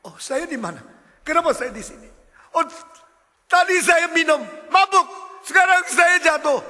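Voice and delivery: put-on high, loud, bewildered drunk man voice; drunk man in pit. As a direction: play the fallen drunk, high and confused.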